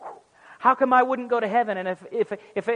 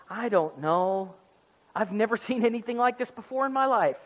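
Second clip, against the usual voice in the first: mock bewilderment with a chuckle; mock-baffled Gabriel; 4 dB quieter than usual. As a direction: pretend to be utterly at a loss. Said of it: "why do you say it like that".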